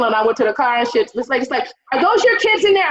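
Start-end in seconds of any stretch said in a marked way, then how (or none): 1.9-2.9 much higher, louder nosy woman's question; nosy lady. Retold or imitated. Scene: store lady calling out the abandoning mom, high and loud. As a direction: voice the busybody lady, high and pushy.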